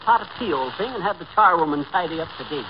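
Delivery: affected Bond Street English; hammed-up British slang delivery; mock British accent. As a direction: play the English gent at home. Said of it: "this Bond Street brogue".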